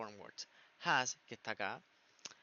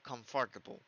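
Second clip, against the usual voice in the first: COMFORTABLE said the American way, with an R; American pronunciation; 2 semitones lower than usual. Shown as a demonstration. Teacher offering the alternative to students, American pronunciation of COMFORTABLE. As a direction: give "comfortable" an American accent.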